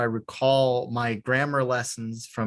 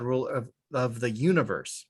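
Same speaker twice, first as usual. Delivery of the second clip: stumbling over the phrase, trailing softer; tongue-tied; 3 dB quieter than usual. Real, not acted. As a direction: trip on "of" and repeat it. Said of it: "I'm getting tongue-tied".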